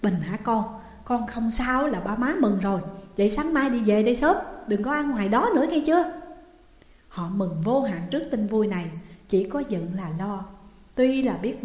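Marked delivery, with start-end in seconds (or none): 0.0-6.1 trembling voice. Acted. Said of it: "giọng run run".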